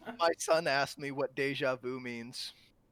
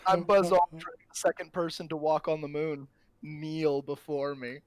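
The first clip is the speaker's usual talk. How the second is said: booming demon lord; 4 dB louder than usual. Acted. Pompous joke, demands kneeling.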